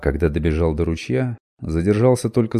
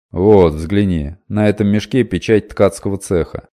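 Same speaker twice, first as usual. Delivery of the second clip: loud merchant; 7 dB louder than usual. Acted. Merchant shows the sack.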